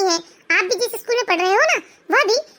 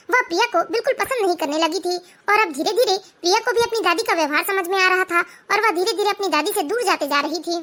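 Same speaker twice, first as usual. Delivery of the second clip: calm, lower storyteller voice between the scenes; story narration; 3 semitones lower than usual. A narrator's reading. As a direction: narrate evenly, a little lower than the characters. (शांत, धीमी कथावाचक आवाज़)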